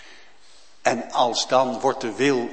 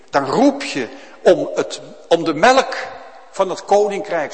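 crying out; 5 semitones higher, 7 dB louder than usual. Acted. Preacher evokes crying for spiritual milk.

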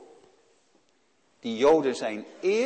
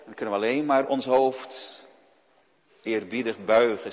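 ordinary talk

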